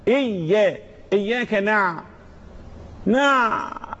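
نع stopped and held on a throaty ع; lingering pharyngeal Ayn in نع; voiced Ayn. Shown as a demonstration. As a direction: squeeze and prolong the ع ending نع. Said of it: "بعبعة".

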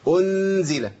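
أنزل with the nun sounded plainly; clear nun, wrong. Shown as a demonstration. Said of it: "عملت إظهار". (إظهار النون في أنزل)

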